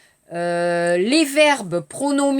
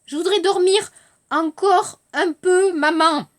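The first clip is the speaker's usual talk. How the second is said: put-on lightly raised child's plea; a hint of a child begging to sleep; sleepy little girl; 5 semitones higher than usual. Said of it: "Alice, la petite fille". (petite fille qui supplie, voix un peu aiguë)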